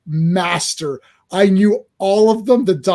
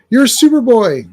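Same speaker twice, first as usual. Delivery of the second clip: caterpillar voice; 5 semitones higher, 6 dB louder than usual. Acted. Comic read aloud, caterpillar voiced.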